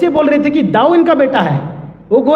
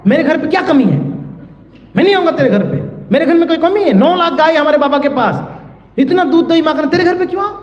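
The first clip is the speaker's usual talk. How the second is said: put-on higher, indignant child telling her off; scolding shout; 4 semitones higher, faster than usual. Little Krishna shouting down the gopi in mock indignation. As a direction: snap at the gopi in mock outrage. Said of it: "एकदम चिल्ला के बोले".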